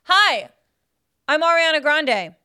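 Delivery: barely-there pop star voice; deliberately lame pop singer; pop singer impression. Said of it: "This is my Ariana Grande impression".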